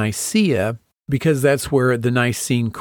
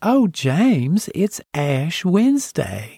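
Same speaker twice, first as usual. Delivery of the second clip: put-on slow, drawn-out Mississippi accent, pitched up; 5 semitones higher than usual. Retelling what a woman said to him, in her Mississippi accent. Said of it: "she said in her Mississippi accent".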